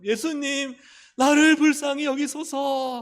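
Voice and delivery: high, loud, drawn-out plea; imitating a blind man's pleading shout; loud cry out. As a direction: call out to be noticed, high and loud. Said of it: "크게 소리 질렀어요".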